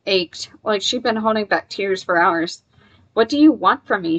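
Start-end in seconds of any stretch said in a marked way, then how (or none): 3.1-4.2 raised, desperate demand; mild shout. Acted. Charlie demands answers from the creatures, a mild desperate shout. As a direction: call out to the creatures in despair. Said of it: "she shouted".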